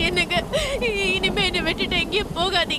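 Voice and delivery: wife sobbing, begging her husband never to leave; crying. Acted. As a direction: beg him through tears. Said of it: "அழுவுறத நிறுத்திட்டு".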